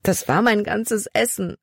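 a touch of tears in the voice; Libby starting to cry over her lost food; tearful. A narrator's reading. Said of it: "Plötzlich begann Libby zu weinen".

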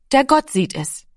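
hesitant little boy, mildly voiced; a hint of a shy boy confessing; timid boy. A narrator's reading. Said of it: "Nun sagte er".

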